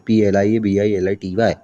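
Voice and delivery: letter by letter, पी एल आई ए बी आई एल आई टी वाई; spelling aloud for students; spelled out. Shown as a demonstration. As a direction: spell it out for the class one letter at a time. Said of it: "प्लिएबिलिटी भी लिख सकते हो".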